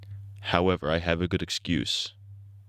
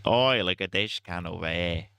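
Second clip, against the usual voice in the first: broader Australian accent attempt; 3 semitones lower than usual. Streamer retries the Australian voice, Australian accent. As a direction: lean into an Australian accent, mate. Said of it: "Australians more like this, mate".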